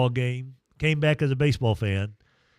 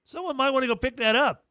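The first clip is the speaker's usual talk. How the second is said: dry disbelief; 10 semitones higher than usual. Retold or imitated. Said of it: "I'm like".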